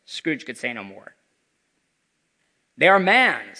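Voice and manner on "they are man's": louder solemn ghost voice; echoing ethereal energy being. Acted. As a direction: speak as a grave spirit. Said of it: "said the spirit".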